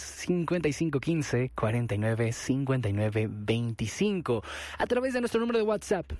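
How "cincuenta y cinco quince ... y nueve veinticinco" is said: repeated more carefully and deliberately. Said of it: "ahí les va otra vez".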